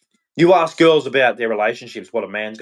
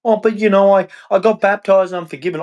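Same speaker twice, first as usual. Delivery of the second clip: mocking excuse; 8 semitones higher, faster than usual. Mocking baptised hypocrites, high smug voice. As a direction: rattle off their smug excuse.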